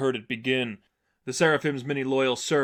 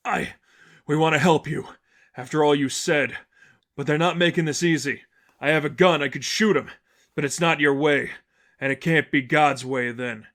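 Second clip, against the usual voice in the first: a lightly voiced reformer, urgent and a bit louder; earnest ally; 2 semitones higher, 4 dB louder than usual. A reformer pleading with Batman in battle, urgent and raised.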